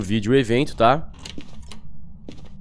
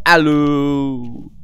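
spooky call out; 3 semitones higher, 4 dB louder than usual. Acted. Calling out to the ghost.

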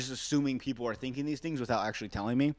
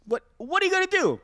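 rhetorical shrug; 3 dB louder than usual. Real, not acted.

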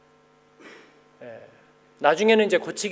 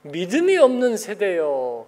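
slow solemn rebuke; slower than usual. Retold or imitated. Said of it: "그럼 뭐라 그래요?".

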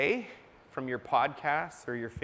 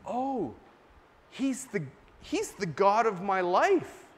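rising, then louder as it clicks; light up as the truth lands; mock listener catching on, pitch climbing; dawning excited realization; 5 semitones higher, 3 dB louder than usual.

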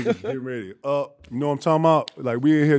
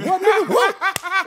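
high, loud, drawn-out challenge; hype retort; 8 dB louder, slower than usual. Retold or imitated. Jordan barking back at the kid, loud and slow.

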